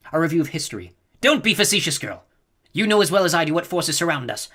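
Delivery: put-on old Reverend Mother scolding her pupil; stern old Reverend Mother. A narrator's reading. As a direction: lecture her like an imperious elder. Old Reverend Mother lectures Jessica.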